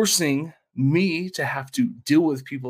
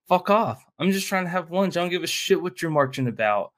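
raised-pitch exasperated retort; imitating a fed-up diner, higher and irritated; mock annoyed snap; 6 semitones higher than usual. Diner snapping at marching protesters, mock annoyed. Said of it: "It's like".

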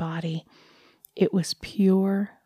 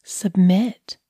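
command; 6 dB louder than usual. Acted. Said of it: "she commanded".

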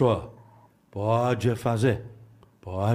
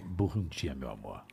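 sultry narrator; 10 semitones lower, 14 dB quieter than usual. Pretend. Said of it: "Você tem uma voz sedutora".

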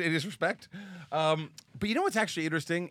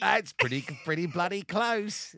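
put-on Australian accent; 4 semitones higher, 4 dB louder, slower than usual. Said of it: "I wanna hear your Australian accent".

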